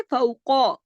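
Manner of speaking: फौको with a thick, full q; heavy qaf. Shown as a demonstration. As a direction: round out the को of फौको. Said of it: "कॉफ मोटा पढ़ा जाएगा".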